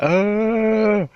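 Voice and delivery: long high moan, held steady; imitated loud moaning. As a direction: mimic an eerie drawn-out wail. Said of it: "I could hear, like, really loud moaning".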